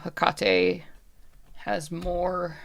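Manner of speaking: halting, words stopped in the mouth; struggling to speak. Acted. Puppet woman tries to tell about Hecate, halting and cut short. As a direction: start to reveal it, then get cut off. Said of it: "like, she's gonna say something".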